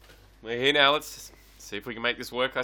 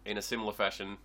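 talking around a lollipop; sucking a lollipop; 2 semitones lower, 5 dB quieter than usual. Real, not acted. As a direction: wet sucking sounds between phrases. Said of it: "every sentence you're punctuating by sucking on a lollipop".

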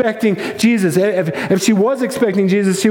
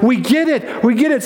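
higher-pitched sudden realization; excited angels; 4 semitones higher than usual. Acted. Angels finally understand the resurrection, excited. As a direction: say it as it clicks, excited. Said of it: "they're excited".

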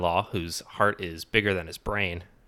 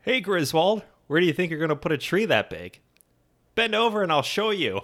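movie quote; 9 semitones higher, 3 dB louder than usual. Retold or imitated. Quoting a neighbour and Clark.

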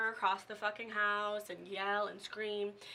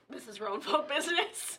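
lightly voiced scolding parent, a bit higher; a hint of a scolding parent; 5 semitones higher than usual. Parent shutting down the child, lightly voiced scolding. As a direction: brush the kid off like a parent. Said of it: "being told to shut the fuck up".

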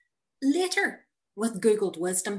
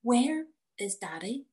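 put-on child asking; 3 semitones higher than usual. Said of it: "says Connor".

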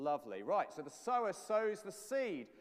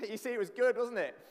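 laughing; 6 semitones higher, 8 dB louder than usual. Real, not acted. Laughing after his own silly impression.

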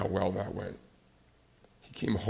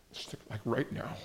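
hushed whisper; 3 semitones higher, 6 dB quieter than usual. Retold or imitated. Retold caller wanting to end it.

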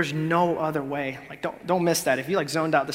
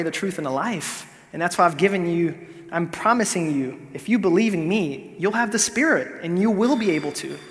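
louder, higher, joyful promise with a laugh; excited reassurance; 3 semitones higher, 5 dB louder than usual. Acted. Jesus cheering on a doubting listener, excited. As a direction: lift it up like good news to the struggling.

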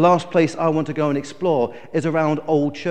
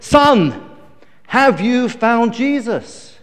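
pastor insisting; 5 semitones higher, 4 dB louder, much slower than usual. Retold or imitated. Pastor asks after longer dunking.

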